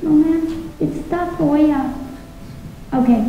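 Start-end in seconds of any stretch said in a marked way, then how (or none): 0.0-1.9 put-on higher polite kid voice, Tafoya slowed; high, careful little girl voice; child correcting teacher. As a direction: correct her politely as a schoolgirl. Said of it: "she'd say".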